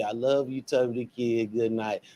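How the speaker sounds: quietly reading her message out; soft read-out. Real, not acted. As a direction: read the comment softly, almost to yourself. Reading mom's comment aloud softly.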